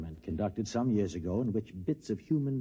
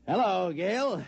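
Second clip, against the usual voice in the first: much higher, eager hello; bright greeting; 10 semitones higher, 4 dB louder, slower than usual. Acted. Bob Adams greeting his old flame Gail on the phone, eager and high.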